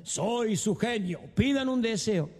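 slow, booming genie. Acted. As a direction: announce yourself like a genie. Genie speaks from bottle.

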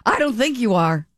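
laughed-through retort; laughing disbelief. Real, not acted. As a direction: scoff at it with a laugh. Laughing disbelief at his claim.

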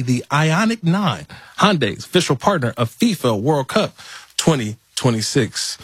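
measured, scripted radio ad delivery; sponsor ad read. Acted. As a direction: read the sponsor copy with deliberate emphasis. Host reads a sponsor ad.

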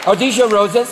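lightly voiced airy supermodel; supermodel deer. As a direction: pause idly, like a pampered supermodel. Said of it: "like supermodels with hooves".

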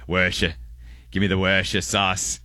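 Worcestershire squashed to "wersha", American style; casual American short Worcestershire. Shown as a demonstration. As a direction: say Worcestershire as a plain American "WER-sha". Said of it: "say it like an American".

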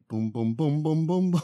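rhythmic mimicked booms; imitated bass beat. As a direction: thump out the beat with your voice. Imitates the song's beat starting.

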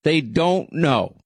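DON'T stretched and stressed; slowly insist, leaning on "don't"; emphatic insistence. Real, not acted. Host contradicting his co-host, emphatic.

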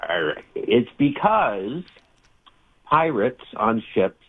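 slow, drawn-out pirate voice; a lightly voiced pirate, slowed right down. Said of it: "Say it in the pirate voice".

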